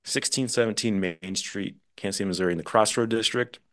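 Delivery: restaurant commercial pitch, punchy then settling; playful ad read. Pretend. Guest plugging his cousin's restaurant, playful ad read. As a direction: sell the menu like a local ad spot.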